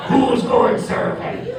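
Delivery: slow, high, drawn-out slurred voice; hammed-up labored island voice; half-paralyzed Caribbean man. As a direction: drag the words out like half your mouth works. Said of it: "he's, like, paralyzed halfway".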